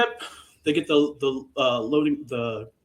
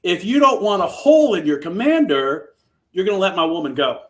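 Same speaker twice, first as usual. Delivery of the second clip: louder, raised mock threat; a hero bluffing with a gun to the commander; retold threat; 4 semitones higher, 5 dB louder than usual. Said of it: "And Mike's like".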